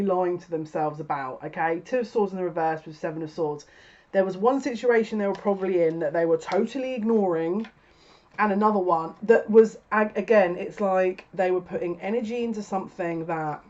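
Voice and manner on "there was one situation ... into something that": animated, emphatic rush of realisation; getting all excited. Real, not acted. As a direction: get carried away explaining it. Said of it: "now I'm getting all excited".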